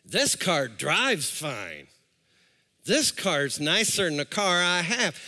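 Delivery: low, slow savoring voice; mock-smitten car buyer, drawn out low; tempted heart talking. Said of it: "My heart says".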